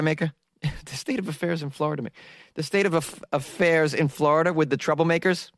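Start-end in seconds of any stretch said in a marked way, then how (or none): 0.8-2.2 laughing at a flubbed line; laughing through it. Real, not acted. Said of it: "which is what I tried to say".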